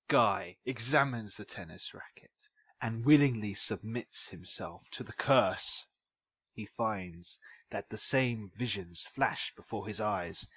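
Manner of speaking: low, measured spooky narration; scary voice. Acted. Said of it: "coming down into your scary voice".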